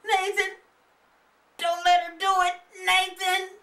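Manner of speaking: high, loud frantic calling; hollering. Acted. Kids shouting for their brother at the window, frantic loud calling. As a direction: yell his name to save him. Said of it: "the kids hollered".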